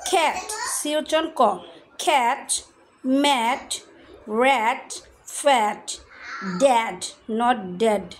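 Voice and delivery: "cat, mat, rat, fat, dad" each with an open æ vowel; slow word-by-word drill, each word on its own; reading pronunciation drill. Shown as a demonstration. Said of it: "এখানে বলতে হবে ড্যাড".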